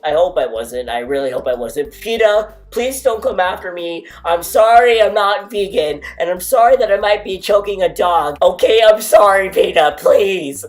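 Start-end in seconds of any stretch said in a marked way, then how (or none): 1.9-10.6 loud, high hammed-up begging; mock plea. Apologising to PETA for choking the dog, loud mock plea. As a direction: beg PETA loudly as a joke.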